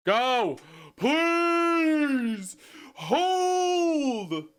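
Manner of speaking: high drawn-out wail of pleading; desperate pleading. Real, not acted. Player begging the game to hold, desperate high wail.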